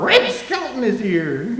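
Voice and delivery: drawn-out announcing call, no real volume; mock shout. Somebody spotting a star outside the car, slow mock shout. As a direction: imitate someone calling out, stretched slowly. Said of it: "somebody shouted out".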